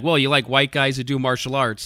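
ordinary talk

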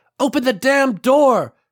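very high, shrill shouting. Banging on the bus doors during a shootout, she yells, raising her voice over the din. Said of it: "trying to raise her voice above the din".

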